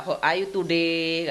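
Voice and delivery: slow "How are you today?" in a thick medok accent; showing her own accent, Javanese English. Shown as a demonstration. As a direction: lay the Javanese accent on, slowly. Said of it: "aku kan masih medok".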